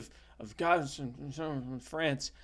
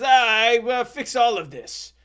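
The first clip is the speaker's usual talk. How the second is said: comic French rescuer, pitched up; Jacques de Gatineau; 8 semitones higher, 7 dB louder than usual. Acted. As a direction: declare it in a hammed-up high voice. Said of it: "that's how he talked".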